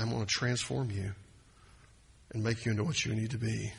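tender promise. Retold or imitated. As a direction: speak the promise gently as God. Voicing God's promise.

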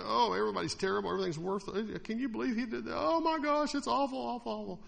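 fast, high, exaggerated shocked gossip; mock gossip. Pastor mocking a news-addict to the congregation, shocked and high. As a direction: ham up a scandalized news reader. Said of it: "You get to kind of".

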